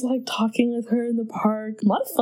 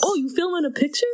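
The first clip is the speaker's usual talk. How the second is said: quick, higher hammed-up Boston voice; Boston accent; 7 semitones higher, faster than usual. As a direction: overdo a Boston local. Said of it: "That wasn't good".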